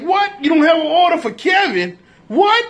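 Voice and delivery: shocked he has no order for Kevin; incredulous. Retold or imitated. Retelling the pizza shop clerk, Kevin's outrage.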